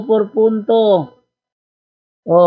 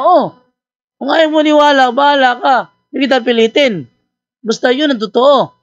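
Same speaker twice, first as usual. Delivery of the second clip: huffy pastor; 4 semitones higher than usual. Retold or imitated. Pastor's irritated reply, voiced higher.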